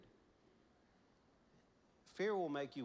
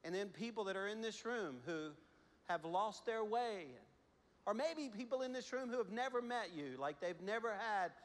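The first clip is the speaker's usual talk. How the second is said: prayer. Real, not acted. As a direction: pray humbly over the room. Leads congregation in prayer.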